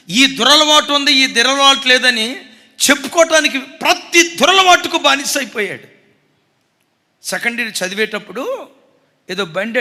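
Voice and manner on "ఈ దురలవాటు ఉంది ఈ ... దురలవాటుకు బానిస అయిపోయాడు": higher, loud preaching denunciation. Real, not acted. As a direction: thunder it at the congregation. Preacher condemning son's vices.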